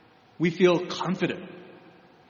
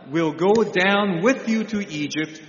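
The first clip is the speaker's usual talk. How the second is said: a lightly raised, solemn voice of God. Acted. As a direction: proclaim it as God speaking to Jacob. God speaking to Jacob, scripture.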